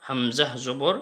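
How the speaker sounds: slow spelled drill of হামজাহ জবর আ; teacher leading slow drill; slow recital. Shown as a demonstration. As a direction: spell out each vowel slowly. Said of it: "চলুন আমরা এগুলো পড়ি".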